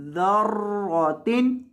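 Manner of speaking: ज़र्रतिन slowly with a thick रॉ; heavy ra. Shown as a demonstration. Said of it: "रॉ को मोटा करेंगे". (ज़र्रतिन, मोटी रॉ)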